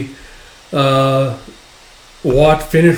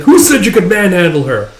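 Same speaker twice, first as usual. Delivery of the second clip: raised, indignant voice; heated, higher-pitched demand; furious challenge; 5 semitones higher, 4 dB louder than usual. Acted. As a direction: act out an angry defender. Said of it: "Shiguma getting furious".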